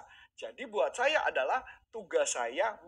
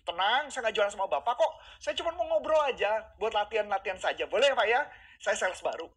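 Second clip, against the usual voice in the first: friendly new salesman; 4 semitones higher, 5 dB louder than usual. Shown as a demonstration. Demoing friendly sales pitch.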